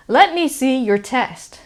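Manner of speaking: "your" reduced to a quick "yer". Shown as a demonstration. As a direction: say "your" short and light, almost "yer". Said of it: "so did you hear that?".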